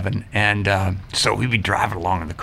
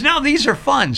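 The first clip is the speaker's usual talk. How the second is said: imitating his wife. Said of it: "And she goes".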